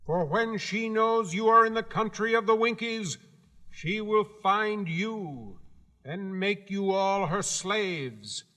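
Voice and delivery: high, proud little gatekeeper; Guardian of the Gates. Acted. Gatekeeper laying down the rules to Dorothy, high and proud. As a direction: announce your post with self-importance.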